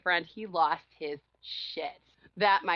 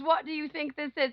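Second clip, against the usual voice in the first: a touch higher, indignant; mock outraged boyfriend; 7 semitones higher than usual. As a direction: mimic him, pitched up. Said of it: "He goes".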